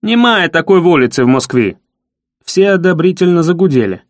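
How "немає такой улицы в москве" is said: triumphant. Acted. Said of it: "торжественно отчеканил".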